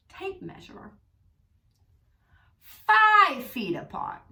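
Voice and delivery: slow, deliberate officious cop voice; mock stern cop. Cop lecturing him and his father, slow and stern. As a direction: spell out each word like a petty cop. Quoting the cop measuring them.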